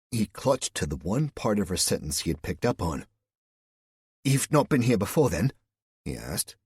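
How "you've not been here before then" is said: pitched up, nervous and louder; voice going higher. A narrator's reading. Nervous Cal asking Louise, voice jumping higher. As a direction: squeak it out higher than he meant. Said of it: "his voice an octave higher than he thought".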